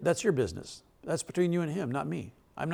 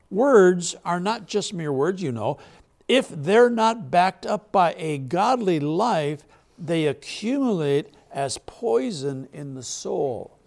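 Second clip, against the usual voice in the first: slow emphatic preaching; 2 semitones higher, 3 dB louder, slower than usual. Acted. Preacher repeating the verse to the congregation as a slow warning. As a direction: draw each phrase out with weight.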